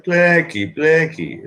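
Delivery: high-pitched retold mother; mother's voice. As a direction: imitate a mother calling out, pitched well up. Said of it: "I talked to my mother, and, and she was like".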